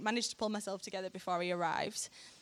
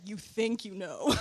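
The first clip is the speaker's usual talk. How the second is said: amused God voice. Retold or imitated.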